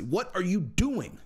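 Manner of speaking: slow and pointed, each word drawn out; slow, leaning in. Real, not acted. Vlogger pressing Connor, slow and pointed. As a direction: drag it out, pressing him for an answer.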